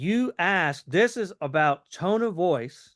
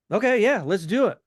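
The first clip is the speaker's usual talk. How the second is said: higher, louder, easygoing yes; casual agreement; 4 semitones higher, 4 dB louder than usual. Shown as a demonstration. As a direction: agree like it's no big deal. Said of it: "my tone of voice is".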